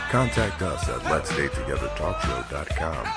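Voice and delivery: usual speaking voice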